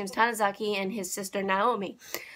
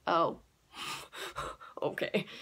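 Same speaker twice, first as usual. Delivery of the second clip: stunned laugh; 5 semitones lower, 10 dB quieter, slower than usual. Retold or imitated. Suddenly serious episode, stunned reaction.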